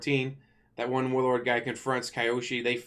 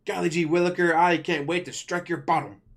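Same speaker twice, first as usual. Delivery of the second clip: high, louder gee-whiz innocent voice; goofy wholesome voice; 4 semitones higher, 5 dB louder than usual. Retold or imitated. A fire-hating teen talks like a cartoon goody, hammed up. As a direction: play it corny and sugary. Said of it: "and is like".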